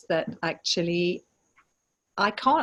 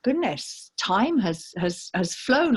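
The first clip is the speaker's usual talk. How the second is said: mild mock surprise; 2 semitones higher, slower than usual. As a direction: lightly play pleasant astonishment on coming round. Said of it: "they go".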